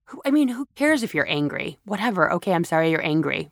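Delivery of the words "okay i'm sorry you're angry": quick, brushing-off sorry; dismissive fake apology. Speaker mocking a bad apology, fast and dismissive. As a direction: toss the apology off fast and careless. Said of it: "That's the worst apology".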